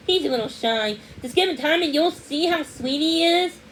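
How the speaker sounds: high, loud, rushed woman's voice; hurried lady. A narrator's reading. Lady hurrying to drop off the puppy, rushed and high. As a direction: gush it all out in a flustered rush. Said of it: "the last thing the woman called out".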